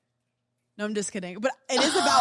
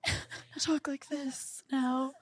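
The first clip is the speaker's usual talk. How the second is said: pop singer impression; 6 semitones higher, slower than usual. Acted. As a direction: do a high-pitched, laughing celebrity girl voice. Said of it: "you sound like a pop singer".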